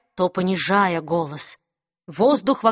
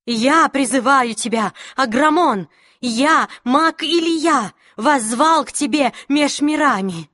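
commanding summons; 4 semitones higher than usual. Acted. Mage summons the demon.

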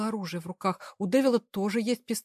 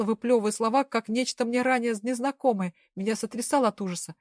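ordinary delivery

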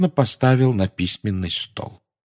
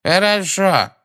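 dismissive; 11 semitones higher, much slower than usual. A narrator's reading. Phineas dismisses, leaves.

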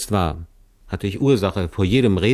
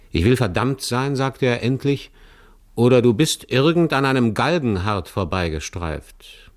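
rough robber's voice, pitched higher; gruff robber; 3 semitones higher than usual. Acted. Robber mocks the stranger he caught, rough and jeering. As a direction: size him up with a rough jeer.

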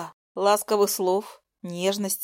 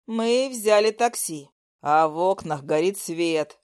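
pressing man; 5 semitones lower than usual. Acted. Lyosha presses angrily.

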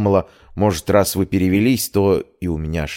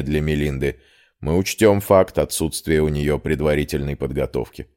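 lowered voice for a man in authority; stern rector. Acted. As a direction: lay down the terms evenly, pitched down.

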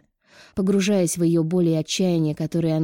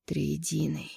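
much softer, breathed in shock; hushed gasp of shock; stunned whisper; 9 dB quieter, much slower than usual. A narrator's reading. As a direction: barely voice it, astonished. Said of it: "ошеломлённо прошептал Неоклис".

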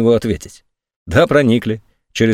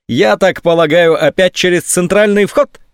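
hopeless certainty; 8 semitones higher than usual. A narrator's reading. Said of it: "безнадёжная уверенность".

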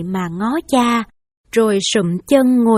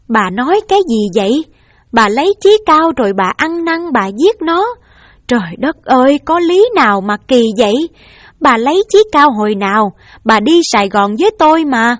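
stunned disbelief; 2 semitones higher, 5 dB louder than usual. Acted. Husband stunned by wife's confession.

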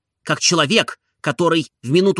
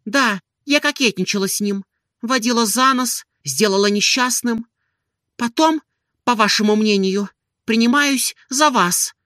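higher, held-back woman's voice on the edge of tears; restrained, near tears; 7 semitones higher than usual. A narrator's reading. Offended Olga answers Stolz with restrained, tearful hurt. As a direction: keep it contained while hurt wells up. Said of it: "произнесла она сдержанным голосом".

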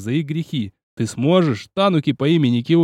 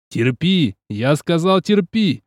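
shouted command; slower than usual. Acted. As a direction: bark it out, rising on the second терпи. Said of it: "выкрикнул я".

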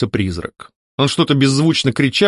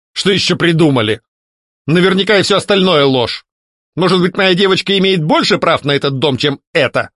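angry; 6 semitones higher than usual. A narrator's reading. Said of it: "гневно посмотрел на меня мужчина".

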